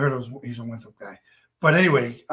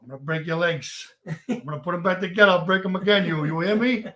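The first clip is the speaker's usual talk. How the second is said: lightly voiced movie tough-guy threat; Robert De Niro; 3 semitones higher, 3 dB louder than usual. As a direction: play a mock heavy making threats. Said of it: "I do a good Robert De Niro impression".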